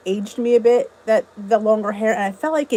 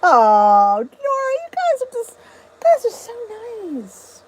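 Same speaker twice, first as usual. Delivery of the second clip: gushing thanks; 10 semitones higher, slower than usual. Real, not acted.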